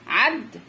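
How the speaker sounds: عد as one closed syllable, stopping on the د; عد cut off from the next syllable; closed first syllable. Shown as a demonstration. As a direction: sound out عد by itself. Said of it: "ده هيتفك اتنين".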